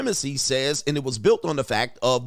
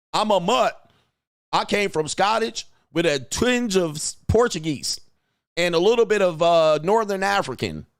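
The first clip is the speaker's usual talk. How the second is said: mocking white folks; 5 semitones higher than usual. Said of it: "mock heritage list".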